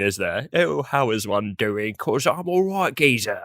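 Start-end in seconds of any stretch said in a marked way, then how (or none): 0.5-1.9 slow royal-family English accent; mock posh English accent. Shown as a demonstration. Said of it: "Either really posh". 1.9-3.4 broad Cockney geezer accent; jaunty, exaggerated Cockney accent. Shown as a demonstration. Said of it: "or a Cockney".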